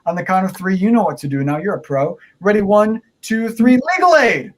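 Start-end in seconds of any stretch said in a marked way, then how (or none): 2.6-4.5 put-on kids party magician. Countdown chant of magic word.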